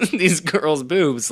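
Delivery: stretched-out, high disbelieving whine; incredulous. Retold or imitated. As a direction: drag it out like you can't believe what you're seeing. Incredulous quote of confused viewer.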